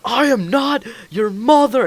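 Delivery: high-pitched imitation of an outraged teacher; hammed-up, high, indignant yell; mock teacher scream. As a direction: mimic a teacher screeching at a pupil. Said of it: "started to scream at him".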